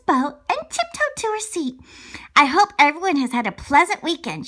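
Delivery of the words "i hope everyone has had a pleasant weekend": teacher. Acted. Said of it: "she said".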